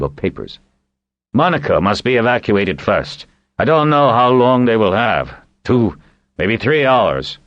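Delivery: a hint of a gruff sea captain, urgent; brisk, commanding old sailor giving orders; lightly voiced old seaman. Old seaman orders the evacuation, lightly voiced urgent captain.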